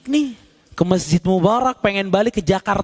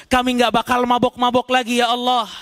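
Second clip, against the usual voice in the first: raised, imploring promises to God; pleading sinners; 5 semitones higher than usual. Acted. Souls in hell promising God to do good, imploring. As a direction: bargain desperately for another chance.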